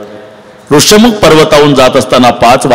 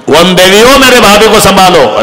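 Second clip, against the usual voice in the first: high, raised call for protection; pleading invocation; 7 semitones higher than usual. Acted. Lakshman asks forest goddess to guard sister-in-law, high pleading call.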